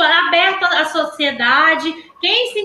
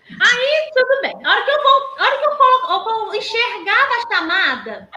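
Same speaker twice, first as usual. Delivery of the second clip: laughing while telling; 4 semitones higher than usual. Real, not acted.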